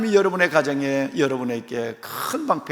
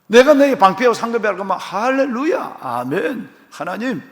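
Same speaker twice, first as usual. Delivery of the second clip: loud, bright hallelujah response; how Abraham should have responded; ideal joyful amen; 5 semitones higher, 4 dB louder than usual. Acted. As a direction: answer God with eager faith. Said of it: "이렇게 돼야 되는데".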